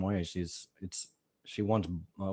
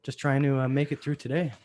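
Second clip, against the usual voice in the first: rough hungover voice; 5 semitones higher, 4 dB louder than usual. Real, not acted. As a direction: speak through a hangover. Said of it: "I am hungover right now".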